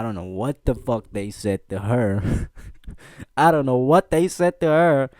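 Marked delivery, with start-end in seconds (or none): 3.4-5.1 laughing. Real, not acted. Laughs retelling the rumour.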